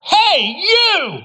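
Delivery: loud, high shout at a line cutter; calling out. Pretend. Preacher yelling at a line cutter at Disney. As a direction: yell to stop someone jumping the rope. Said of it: "when you hear that person go".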